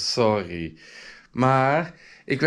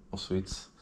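normal talking voice

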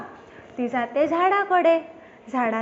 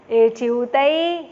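slow, louder crow voice; crow Kaudada; 5 dB louder, slower than usual. Acted. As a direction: draw it out like a sly crow. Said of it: "कावळेदादा म्हणतो".

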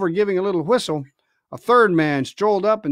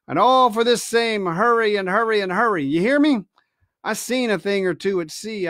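scornful pirate; 3 semitones higher than usual. Acted. Silver lecturing.

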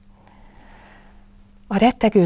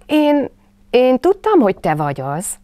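trembling Piglet; 7 semitones higher, 7 dB louder than usual. A narrator's reading. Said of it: "csak egy icipicit reszketett".

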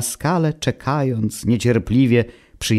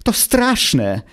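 much higher, pleading in despair; despairing plea; 5 semitones higher than usual. Acted. Stranded castaway begs his friend for advice, high and desperate. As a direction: beg for help, frightened and high. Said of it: "zrozpaczony rozbitek".

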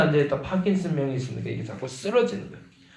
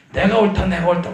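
louder, higher insistent yelling; shouting; 7 semitones higher, 8 dB louder than usual. Retold or imitated. Director and guardian quarrelling, yelling they are right. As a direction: yell that you're right, over and over. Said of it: "막 소리 질러요".

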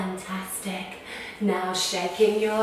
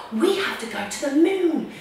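loud, urgent mission news; urgent loud mission news for the children; excited; 5 semitones higher, 4 dB louder than usual. Acted. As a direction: tell the mission with big drama. Mission briefing drama.

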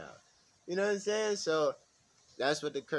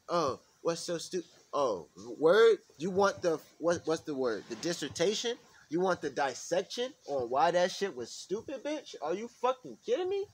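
mock outraged rant; 4 semitones higher, 3 dB louder than usual. Acted sarcastic rant at questioner.

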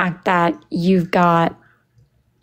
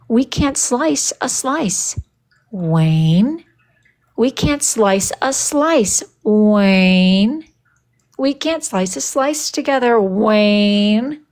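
exasperated scolding; much slower than usual. Retold or imitated. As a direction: spell it out slowly to Wayne, exasperated. Scolding Wayne about the cake.

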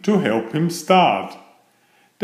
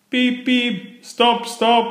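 high engine-whistle plea; piping, high-pitched alarm call; whistled cry; 11 semitones higher than usual. A narrator's reading. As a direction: toot it out high, begging to stop. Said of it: "whistled Thomas".

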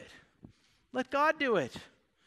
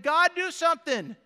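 higher, exasperated mock cry to God; frustrated plea; 6 semitones higher, 4 dB louder than usual. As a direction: act out David begging for action. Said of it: "he's just frustrated at everything that's happening".

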